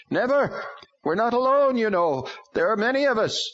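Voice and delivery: high, loud strange demon voice; defiant demon. A narrator's reading. Demon defies Hank.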